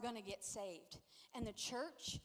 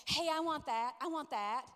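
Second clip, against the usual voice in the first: louder mock child's demand; lightly voiced grabby kid, insistent; 2 semitones higher, 6 dB louder than usual. Kids demanding what their friends have, insistent.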